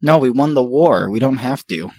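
a hint of a British accent, half-hearted; lightly put-on British accent; mock British accent. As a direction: try a reluctant British accent. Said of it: "do your British".

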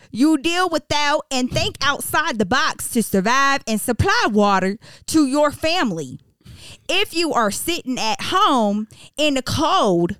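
put-on stern Texas accent reading. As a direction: read it like a gruff Texas mayor. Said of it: "I'm gonna be reading this in a Texas accent".

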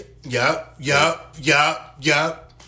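imitating people. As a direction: mimic the nosy crowd. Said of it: "wanna be like".

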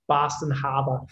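put-on Boston accent. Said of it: "give us your best Boston accent".

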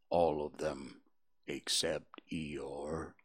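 low, slow, soft donkey voice; gloomy Eeyore. Acted. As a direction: mope through it like a gloomy old donkey.

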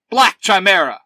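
high, forceful hero shout; yelled morph call. A narrator's reading. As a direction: yell it like a transformation call. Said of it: "Zach yells".

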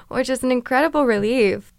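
usual speaking voice

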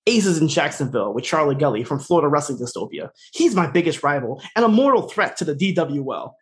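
imitated solemn monotone announcement; deadpan monotone. Husband telling his wife about his rival, monotone. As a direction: recite it like a stiff, scripted declaration. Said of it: "in the most monotone voice".

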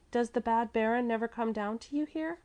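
put-on high, mildly anxious child; anxious question. A narrator's reading. Little girl asks about bad baron, high and anxious. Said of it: "she asked anxiously".

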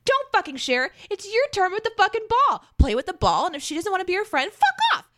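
high, punchy rant, building to a yelled fuck off; defiant mom's rant, mostly high-pitched; fired-up rant. Pretend. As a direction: egg the kid on, fierce and gleeful. Emphatic rant to daughter.

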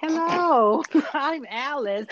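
high, sing-song fairy voice, laughing through it; bubbly fairy Alice. Retold or imitated. Imitating Alice bursting into the house, high and bubbly. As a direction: flit in like a twirling little fairy.

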